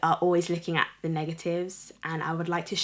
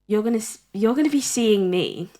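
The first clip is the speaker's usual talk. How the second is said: talking with gum in mouth; words round a wad of gum; chewing gum. Real, not acted. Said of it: "I'm really struggling to speak".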